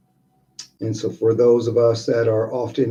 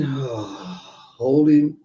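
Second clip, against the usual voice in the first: exhaling sigh; 3 semitones higher than usual. Shown as a demonstration.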